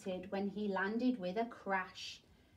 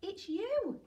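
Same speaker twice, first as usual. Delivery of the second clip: laughing; 9 semitones higher than usual. A narrator's reading. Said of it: "they laughed and said".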